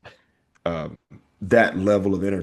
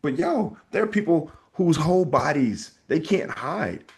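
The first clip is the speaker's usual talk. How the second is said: higher, urging friend to let it go; earnest higher plea to a friend; advice to Michael Jackson; 5 semitones higher than usual. Retold or imitated. Lecturing Michael Jackson about his scars, in a raised urging voice. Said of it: "For Michael Jackson, I would say".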